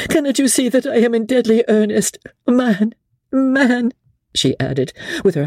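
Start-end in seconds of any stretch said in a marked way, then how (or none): 0.1-3.9 higher, pleading lady's voice; desperate plea. A narrator's reading. Lady Blakeney begging Sir Andrew to trust her, desperate and higher. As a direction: beg him to believe her.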